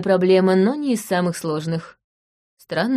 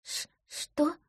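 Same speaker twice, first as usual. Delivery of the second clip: startled gasp; 9 semitones higher, 11 dB quieter than usual. Acted. Woman exposed by her real name.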